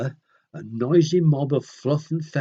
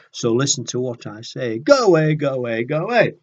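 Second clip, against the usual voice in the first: loud, grumpy bird snapping go away; cross Go Away Bird; 5 dB louder than usual. Acted. Storyteller voicing a cross bird refusing a chat, loud and grumpy. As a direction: shoo the chatterbox off crossly.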